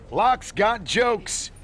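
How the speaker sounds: high, drawn-out mock amazement; slow, high-pitched ribbing of a rival. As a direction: stretch each word high, as a taunt. Mocking the rival's jab.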